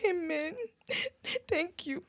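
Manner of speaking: whispered thanks, barely voiced. Comforted mother whispers her thanks to the friend. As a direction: breathe the thanks out.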